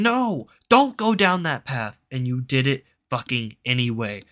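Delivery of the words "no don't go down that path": mock warning yell. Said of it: "everybody was screaming at you going".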